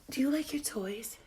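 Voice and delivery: high whispered pet talk. Real, not acted. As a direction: coo to the bird in a tiny voice. Baby talk to pet bird.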